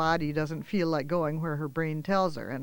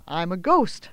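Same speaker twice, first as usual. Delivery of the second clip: marveling; 5 dB louder than usual. Acted. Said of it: "Marcy marveled out loud".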